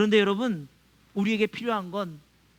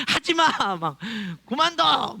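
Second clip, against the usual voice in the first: put-on scolding kids; slower than usual. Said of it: "막 이런 말만 했는데".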